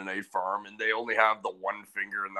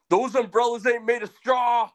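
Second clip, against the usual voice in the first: mocking quip; 14 semitones higher, 5 dB louder than usual. Mocking quip at Mennonite kids.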